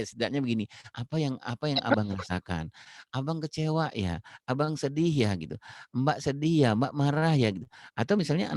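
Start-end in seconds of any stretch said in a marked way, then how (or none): 0.9-5.3 gentle parent. Retold or imitated. Parent asking a crying son how he feels, gently. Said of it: "ibunya atau ayahnya mengatakan". 5.9-7.5 gentle parent. Retold or imitated. Parent asking a crying son how he feels, gently. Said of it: "ibunya atau ayahnya mengatakan".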